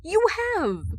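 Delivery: high, loud frustrated outburst; frustrated exclamation. Acted. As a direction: burst out in frustration. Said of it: "Hal exclaims in frustration".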